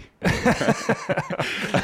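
high, breathy burst of laughter; laughing. Real, not acted. Host teases friend about success, laughing. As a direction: crack up helplessly.

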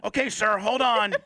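high-pitched imitation of a voice over a mic; talking through intercom. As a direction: imitate a technician on a talkback mic. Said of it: "She's talking through, like, a little slate mic".

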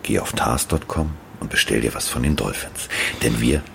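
low, smooth home shopping pitch; teleshopping voice. Pretend. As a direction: sell it like a TV shopping host. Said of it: "wie beim Verkaufsfernsehen".

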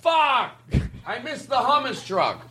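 high-pitched anguished wail, hammed up; mock dismay. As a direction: wail it like a disappointed customer. Mock cry of missing the truck.

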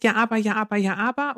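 leicht gespieltes Kind, das widerspricht; Kind, das nörgelnd dagegenhält; quengelndes Kind. Retold or imitated. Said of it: "Das Kind sagt". (Kind, das der Mutter quengelnd widerspricht)

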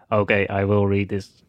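stiff robotic assistant voice. Retold or imitated. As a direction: read it like a robot voice. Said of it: "answers in this robotic voice".

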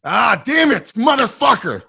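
high-pitched exclamation of frustration; exasperated outburst. Real, not acted. Co-host cursing himself for missing the sarcasm, exasperated. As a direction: cry out, kicking yourself.

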